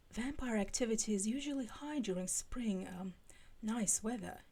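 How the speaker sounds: hushed, lightly British librarian; British accent. Acted. A hint of British, half whispered. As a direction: Giles lecturing the friends, faint British voice. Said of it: "doing a Giles accent".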